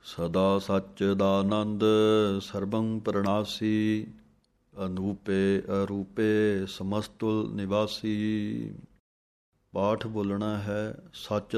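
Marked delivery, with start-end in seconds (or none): 0.1-8.7 slow, measured chant of verses; scripture recitation. Acted. Teacher recites Jaap Sahib for students, slow chant. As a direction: recite each line with reverence.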